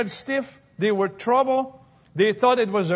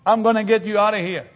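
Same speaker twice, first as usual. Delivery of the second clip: mock promise; much faster than usual. Mock promise Jesus never made.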